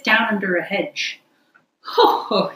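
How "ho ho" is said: ecstatic laugh. Acted. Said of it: "he cried in ecstasies".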